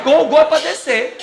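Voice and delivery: loud, high and slow, spelling it out; over-explain it like to a fool; mock exasperated explaining. Wife mocking her husband, loud and slow. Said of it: "Ela fez".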